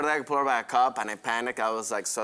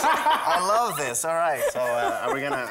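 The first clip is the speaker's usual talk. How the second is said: laughing; 2 semitones higher, 5 dB louder than usual. Real, not acted.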